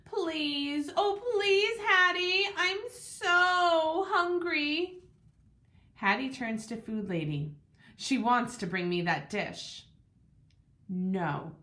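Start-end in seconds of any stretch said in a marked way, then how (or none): 0.1-5.0 high pleading whine, drawn out slow at the end; whimpering plea. A narrator's reading. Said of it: "I whimper and moan". 10.9-11.6 firm no. A narrator's reading. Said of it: "food lady says".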